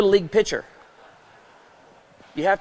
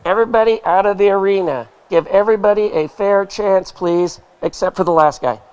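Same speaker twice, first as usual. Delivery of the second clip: loud booming announcer call over the PA; loud mock announcer addressing the arena; 6 dB louder than usual. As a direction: belt it out like the rodeo announcer. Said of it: "you hear the announcer go".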